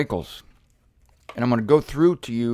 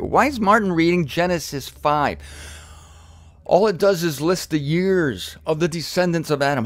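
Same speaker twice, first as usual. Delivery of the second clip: mock complaint; 3 semitones higher than usual. Voices a bored listener's complaint.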